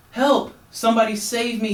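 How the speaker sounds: very high, loud cry for help; shouting for help. A narrator's reading. Stranded frog shouts for rescue, very high loud cry. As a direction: scream for rescue over the waves. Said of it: "he shouted".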